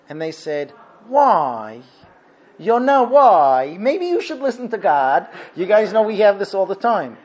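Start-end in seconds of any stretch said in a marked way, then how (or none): 1.1-5.3 drawn-out, exasperated "why"; upset questioning. Retold or imitated. Upset sailors confronting Yonah, mock dismayed. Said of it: "they got very upset".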